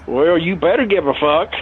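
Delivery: a laugh through the threat. Retold or imitated. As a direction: quote it while chuckling. Cook's threat, told laughing.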